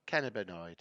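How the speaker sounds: flat American Cannabinoid; American accent. Retold or imitated. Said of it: "How does an American say it".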